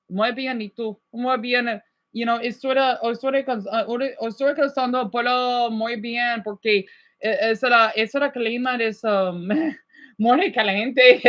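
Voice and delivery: chatty Spanish small talk, relaxed; casual Spanish chat; Spanish accent. Shown as a demonstration. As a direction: speak it like a native Spanish speaker. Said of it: "when I talk in Spanish".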